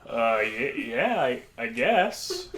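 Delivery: halting, stammered, lifting at the end; hesitant agreement. Retold or imitated. Friend humouring a stranger's complaint, hesitant and awkward. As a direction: imitate an unsure friend going along.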